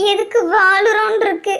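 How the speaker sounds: tearful despair; crying. Acted. Crying girl confides in her friend, tearful despair. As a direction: speak through tears, hopeless. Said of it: "ஏன் அழுற நீ".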